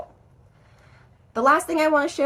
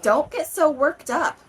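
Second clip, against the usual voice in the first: mild acted irritation, higher pitched; edge of anger; 4 semitones higher, 3 dB louder than usual. Teacher replaying her example tone, mildly annoyed. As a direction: tell them off, a bit anxious or angry. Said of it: "It sounds more like anger or maybe anxiety".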